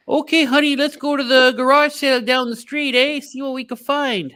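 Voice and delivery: mock Canadian couple. Mocking Canadian couple going thrifting.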